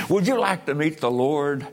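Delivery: pointed question with a lifted pitch. Real, not acted. Preacher asks the congregation about meeting the Lord, firm but restrained. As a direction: press the question on them, still restrained. Question repeated later with more force.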